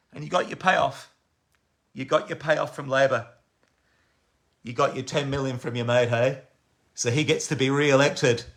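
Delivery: dropped low and soft after the outburst; level the charge quietly, voice well down; quiet accusation. Real, not acted. Bitter charge of taking a payoff.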